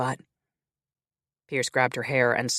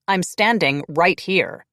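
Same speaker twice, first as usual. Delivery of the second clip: louder, slow and irritated; annoyed; 4 semitones higher, 6 dB louder, slower than usual. Acted. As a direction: make her notice you. Annoyed vampire demands attention.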